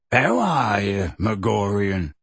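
wary. Acted. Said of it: "said Hagrid warily".

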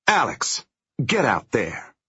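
high, loud curt command; snapped order. Acted. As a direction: bark the order. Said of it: "Liz snaps".

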